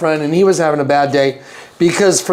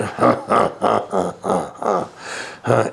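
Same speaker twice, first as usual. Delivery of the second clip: devil laugh; 10 semitones lower, 7 dB quieter than usual. Retold or imitated. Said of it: "laughing noise like the devil".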